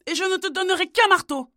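voix de mère plus aiguë et forte, railleuse; donne-lui ce marteau avec mépris; mère moqueuse. Acted. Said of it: "lui répondit sa mère". (mère ricanante qui refuse tout)

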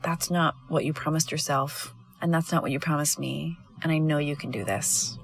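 quiet, steady and caring, ending in a whisper; soft firm encouragement. Retold or imitated. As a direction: hold them to their word gently, then whisper the belief. Calling a client back to promise.

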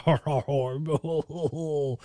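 mock crying. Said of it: "That's him crying".

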